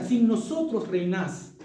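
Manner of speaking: sin nosotros reinás, drawn out slowly; slow emphasis. Shown as a demonstration. Preacher stressing Paul's words for the congregation, slow. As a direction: lean on each word, slow. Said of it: "mira la palabra que usa".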